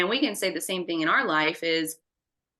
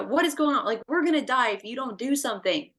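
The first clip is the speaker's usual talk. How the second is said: mildly panicked demand, raised pitch; freaking out; 5 semitones higher, faster than usual. Acted. Disciples pleading with Jesus in the storm, freaking out. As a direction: plead urgently, acting out alarm. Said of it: "they freak out".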